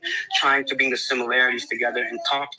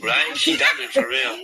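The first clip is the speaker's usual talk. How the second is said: excited high agreement; 13 semitones higher, 3 dB louder, slower than usual. Real, not acted. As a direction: voice jumps way up, eager.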